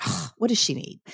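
mock irritated sigh, then grumble; mildly irritated. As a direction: grumble under a huffed "ugh". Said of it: "I was just really irritated".

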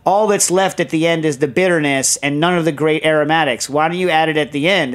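half-strength mock telling-off; imitated yelling. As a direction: berate him like a cranky friend on the phone. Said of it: "him yelling at us about X, Y, or Z".

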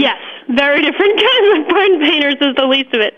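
amused agreement with a laugh mid-line. Real, not acted. Farmer agreeing with the host, laughing. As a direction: chuckle as you echo the host's words. Echoing the host's remark, amused.

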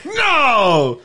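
high shocked shout of disbelief. Real, not acted. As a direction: blurt it out in disbelief. Shocked at news.

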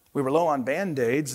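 soft, understated nurse's excuse; lightly acted sheepish mumble; mild mumble. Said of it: "mumbled the nurse".

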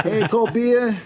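loud, high stadium vendor holler; beer vendor call. Shown as a demonstration. Asked for his best call, he hollers like a stadium beer vendor. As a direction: belt it out over a ballpark crowd. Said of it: "Let me hear your best beer here".

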